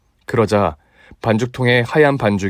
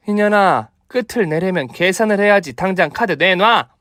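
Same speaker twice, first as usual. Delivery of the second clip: fierce demand; 8 semitones higher than usual. Acted. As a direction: bark for the card. Mother demands payment. (사납게 다그치는)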